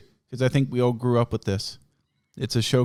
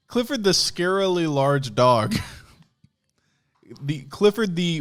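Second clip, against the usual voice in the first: laughing; 7 semitones higher than usual. Real, not acted. Mock title.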